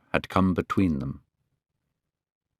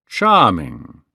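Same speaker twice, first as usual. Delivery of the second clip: a louder, admiring exclamation; cried out; 3 semitones lower, 4 dB louder than usual. Acted. Lord Henry admiring Sybil on stage, crying out. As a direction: call out your delight at her. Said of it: "cried Lord Henry".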